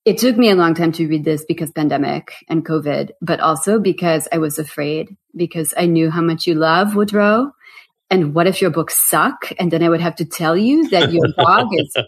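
lightly imitated French-accented agent; a hint of French accent, apologetic; Stephanie's French accent. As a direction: retell it with a mild French accent. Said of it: "she's French and she hates it".

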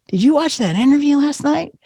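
high, light questioning voice; asking mom. Retold or imitated. Asking mom about the interview, high and light. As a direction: gently test her memory. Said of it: "I'm like".

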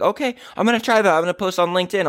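high, fast, eager imitation of the lady; naive eager reply. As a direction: mimic a gullible newbie cheerfully agreeing. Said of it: "She was like".

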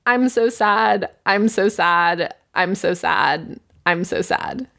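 badly acted sadness, falling away; mock sad. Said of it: "Go act sad and say a eulogy".

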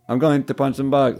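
Keychain voice. Acted. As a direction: say the catchphrase as the little robot. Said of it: "And I'll do it as keychain".

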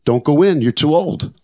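high-pitched mock warning yell; imitating wife's scream. Wife begging husband not to enter surf, high mock yell. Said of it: "My wife's screaming".

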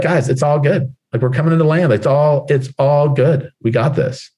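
mild reassuring pilot voice; a touch of a calm captain settling the cabin. Acted. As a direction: keep the passengers steady, easy and sure. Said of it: "who can be calm in the storm".

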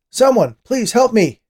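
high, loud, drawn-out plea; panicked shout, slow and high; shouting for help. A narrator's reading. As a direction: yell desperately for rescue. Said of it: "he shouted".

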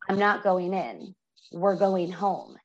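slow, deliberate retold declaration; solemn announcement. Husband tells wife the prison sentence is stayed, solemn. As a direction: spell out the news slowly.

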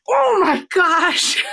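slow, high, choked-up oh my gosh; teary high gasp of surprise; overwhelmed gasp. Retold or imitated. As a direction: relive the shock of your own words, voice cracking. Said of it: "And then I went".

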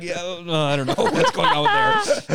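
high squeaky laughing reply. Retold or imitated. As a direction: laugh it out, baffled. Own younger self, laughing.

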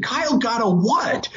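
high rising incredulous question; disbelieving. Retold or imitated. Dad asking his wife about his son's news, disbelieving. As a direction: ask it as if you can't believe it. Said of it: "I couldn't believe it".

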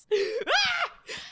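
high burst of real laughter; high-pitched laugh. Real, not acted. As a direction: crack up at your own bit. Own laughter after acted message.

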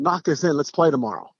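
easy, friendly encouragement; casual friendly challenge between rivals; friendly invite. Retold or imitated. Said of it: "Just like that".

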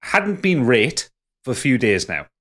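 put-on a light Yorkshire accent read. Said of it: "nice Yorkshire accent needed for this one".

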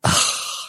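a breathy, weary wife's sigh; wife overhearing the call, an audible sigh; exasperated sigh. Retold or imitated. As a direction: let out an unimpressed sigh. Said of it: "right then I heard".

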